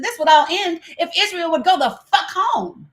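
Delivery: retelling her angry reply, voice up high; heated retort. Retold or imitated. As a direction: fire it back at him, exasperated. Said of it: "I said".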